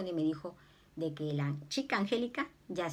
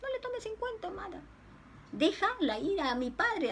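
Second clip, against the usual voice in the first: gentle voice of Jesus; 12 semitones higher than usual. Retold or imitated. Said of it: "me decía Jesús".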